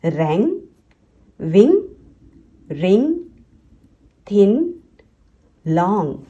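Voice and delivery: रैंग, विंग, रिंग, थिन, लॉन्ग ending in a nasal NG; spaced word list, रैंग to लॉन्ग, no separate N. Shown as a demonstration. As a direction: let the G ring through the nose in रैंग to लॉन्ग. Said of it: "जी को आप नेजली pronounce".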